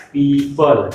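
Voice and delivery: पीपल with the ī held long; long first vowel. Shown as a demonstration. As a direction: linger on the "pee" of पीपल. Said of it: "बड़ी की मात्रा में थोड़ा सा ठहराव है".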